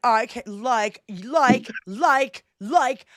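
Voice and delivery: put-on drawn-out Valley Girl filler words; mock Valley Girl. Showing how the maga bros speak, mock Valley Girl. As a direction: stretch each like as a Valley Girl would. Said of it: "turned into a Valley Girl when they speak".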